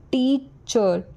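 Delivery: टीचर with टी stressed and drawn out. Shown as a demonstration. Teacher showing where stress falls, first syllable of टीचर stressed. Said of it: "टी पर stress दे रहे हैं".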